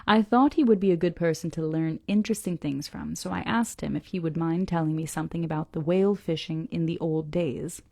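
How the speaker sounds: measured, deliberate reading aloud; story narration. A narrator's reading. Reader reads the harbor description to listeners, story narration. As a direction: read it out carefully, phrase by phrase.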